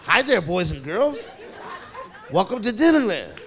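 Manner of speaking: put-on measured theme-park welcome to the children; Mickey Mouse. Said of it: "Here come Mickey Mouse".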